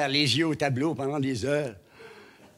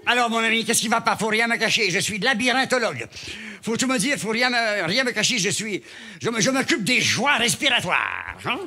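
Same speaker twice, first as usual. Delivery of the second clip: hammed-up fierce doctor, a little higher; fierce specialist; 4 semitones higher than usual. A ferocious ENT questions his patient, hammed-up and bossy. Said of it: "un otorino féroce".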